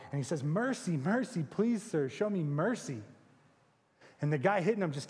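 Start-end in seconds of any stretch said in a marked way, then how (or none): 0.4-3.0 last cry. Retold or imitated. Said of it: "this last kind of cry".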